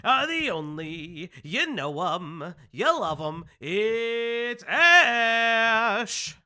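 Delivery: announcer introduction. Acted. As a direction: hype up the co-host's entrance. Introduces co-host.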